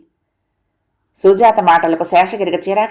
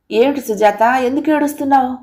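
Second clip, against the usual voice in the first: flustered concern; 5 semitones higher than usual. Acted. Husband to tearful wife, mildly flustered. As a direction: voice lifting higher in mild alarm. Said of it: "Seshagiri కంగారు పడ్డాడు".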